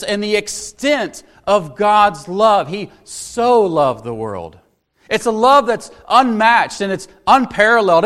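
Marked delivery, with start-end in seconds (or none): 2.7-4.6 "so" given the weight of the line; slow, lean into "so"; "so" stretched a little, then fall; stress on so. Shown as a demonstration. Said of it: "an adverb there that emphasizes".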